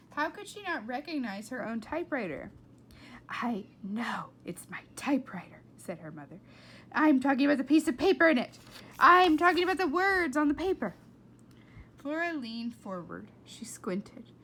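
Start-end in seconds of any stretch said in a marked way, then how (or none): 3.3-5.6 hissed whisper held back; tense whisper. Acted. Mother holding back anger at Flora, whisper. 6.9-10.9 very loud, fast, high rant; angry outburst. Acted. Mother scolding Flora about the typed page, angry.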